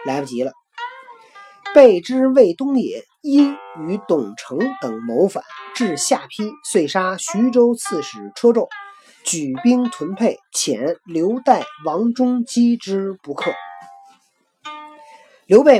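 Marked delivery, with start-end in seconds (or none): 1.7-13.5 classical recitation. A narrator's reading. Reading classical text aloud.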